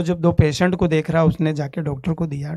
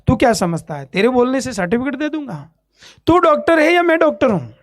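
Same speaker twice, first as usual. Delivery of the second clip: angry doctor; 5 semitones higher than usual. Retold or imitated. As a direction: scold like an enraged doctor in front of patients. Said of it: "इतना गुस्सा हो गया". (गुस्से में डाँटता doctor)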